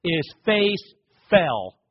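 "His face fell," stretched out slowly. Shown as a demonstration. Preacher lets the rich man's fall sink in, slowly. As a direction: linger on every word of "His face fell,". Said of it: "the man's face went".

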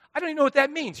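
exasperated. Real, not acted. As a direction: toss it up in disbelief. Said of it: "repeated with higher pitch".

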